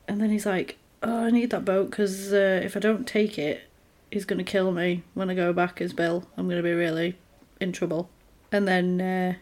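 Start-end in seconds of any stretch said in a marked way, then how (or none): 1.0-8.1 put-on quiet child voice. Voicing worried child.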